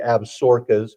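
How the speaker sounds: "Absarokas" said as ab-SOR-kas; "Absarokas" in three beats, like ab-SOR-kas; proper local pronunciation. Real, not acted. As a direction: say "Absarokas" with the middle squeezed to one syllable. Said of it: "which is the proper pronunciation".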